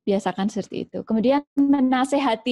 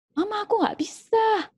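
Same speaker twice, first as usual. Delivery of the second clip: put-on much higher, helpless child's whine; whiny child; 11 semitones higher than usual. Child whining to mama that she can't sew. Child refusing to learn sewing.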